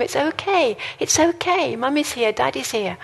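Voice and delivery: put-on gentle parent comforting a child; soothing a scared child. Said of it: "you hold them and you reassure them".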